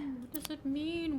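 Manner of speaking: airy whispered musing; whispering. Acted. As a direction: breathe the question softly.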